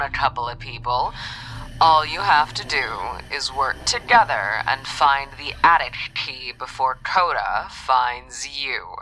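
exasperated scolding with little pitch shift; cheerless, accent dropped. Acted. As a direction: drop the friendly act and lecture. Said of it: "the accent was gone, along with the good cheer".

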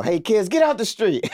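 a neighbor shouting down the block; Tom Arnold yelling. Retold or imitated. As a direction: holler at kids in the street. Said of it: "a voice go".

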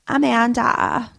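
put-on drawn-out Valley girl Amanda. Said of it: "I just said it like a Valley girl".

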